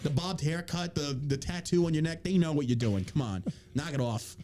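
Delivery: put-on New York accent, exasperated pleading; New York man. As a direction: plead with the team like a fed-up New Yorker. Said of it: "I don't know why I'm a New York man".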